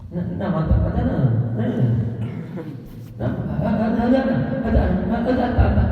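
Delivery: quick playful village accent, lightly hammed; mock the village way of talking; village-style Malay accent. Shown as a demonstration. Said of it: "yang alor pakai gaya alor". (logat kampung yang dibuat-buat)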